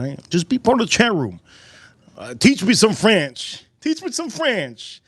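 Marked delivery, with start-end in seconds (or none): 2.3-5.0 high, drawn-out plea; playful plea. Pretend. Streamer begging chat for a French lesson, playful plea. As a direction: stretch it out high and slow, playfully.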